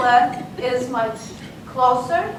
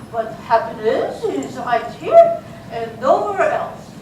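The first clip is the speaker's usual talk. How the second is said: mock French accent. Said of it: "There's a very strong French accent".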